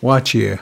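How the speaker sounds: Wachie said clearly as WAH-chay, falling; careful teacher voice saying Wachie; Cree pronunciation. Shown as a demonstration. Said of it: "teaching me three words in Cree".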